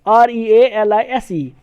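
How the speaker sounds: slow letter-by-letter dictation; slow teacher spelling. Shown as a demonstration. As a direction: spell each letter slowly. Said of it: "British English में लिखते हैं".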